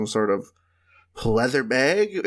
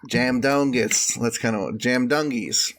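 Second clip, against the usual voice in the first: Australian accent demo. Shown as a demonstration. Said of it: "That's what they would say".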